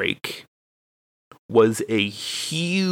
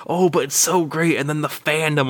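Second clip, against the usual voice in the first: mock gushing friend; 6 semitones higher than usual. Imitating friend pleading.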